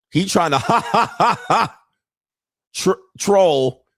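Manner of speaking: breaks into high laughter mid-sentence; can't get the words out for laughing. Real, not acted. Vlogger cracking up at the fan with the bag, laughing.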